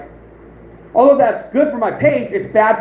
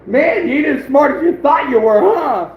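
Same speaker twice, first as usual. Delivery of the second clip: higher-pitched, teasing gloat; mock taunt; 4 semitones higher than usual. Taunting a sneaky online rival he outsmarted, playful gloat. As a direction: needle a rival, rising on the final huh.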